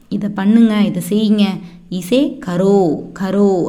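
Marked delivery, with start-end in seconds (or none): 1.9-3.6 slow, drawn-out "கரோ" with a long final o; model pronunciation. Shown as a demonstration. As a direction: stretch "கரோ" out for learners. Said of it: "அப்படின்னு pronounce பண்ணணும்".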